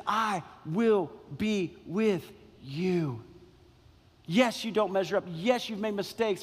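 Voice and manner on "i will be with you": slow, tender reassurance; tender voice of Jesus. Acted. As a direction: draw out each word like a gentle vow. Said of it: "Jesus comes to us and says".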